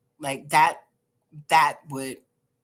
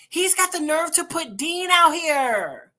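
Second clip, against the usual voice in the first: higher, slower, laughing through it; laughing disbelief; 9 semitones higher, 4 dB louder, slower than usual. Real, not acted. Vlogger laughing in disbelief at the dad.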